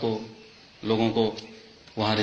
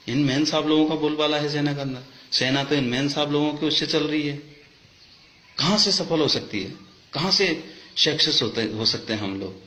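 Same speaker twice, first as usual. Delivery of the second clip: indignant protest, pitched higher; real indignation; 4 semitones higher than usual. Real, not acted. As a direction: demand answers, voice raised in pitch. Angry complaint about army officers' wives. (आक्रोश भरी, ऊँची आवाज़)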